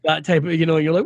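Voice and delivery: ordinary delivery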